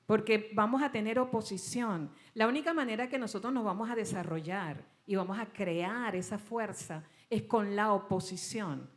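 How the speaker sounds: firm, earnest preacher's call to wake up; a steady sermon close; preaching exhortation. Acted. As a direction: urge the congregation with conviction. Closing exhortation to congregation.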